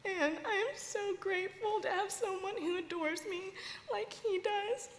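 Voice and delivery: grateful through tears, voice lifting; tearful, heartfelt testimony; real crying. Real, not acted. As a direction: choke up with gratitude. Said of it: "I'm sorry I'm crying".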